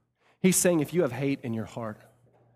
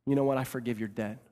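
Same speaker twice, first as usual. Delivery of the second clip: softening, lowered voice; gracious forgiveness. Acted. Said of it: "looks at him with grace".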